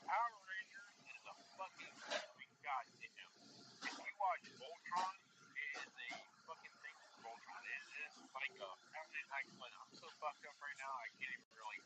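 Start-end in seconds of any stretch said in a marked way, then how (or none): 5.6-11.8 words slurring together, wasted. Real, not acted. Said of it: "I love how you're slurring your words".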